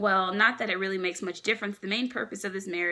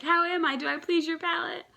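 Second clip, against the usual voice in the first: lightly higher, "please" lifted; mock suave Sanji; 9 semitones higher, 3 dB louder than usual. Sanji asks Big Mom about her palate, mock suave. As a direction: ask it with exaggerated charm.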